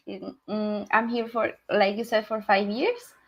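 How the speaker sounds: usual speaking voice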